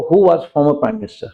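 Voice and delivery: slow, careful example sentence; dictating pace; slow example read. Shown as a demonstration. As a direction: read it out word by word for the class. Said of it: "slow example".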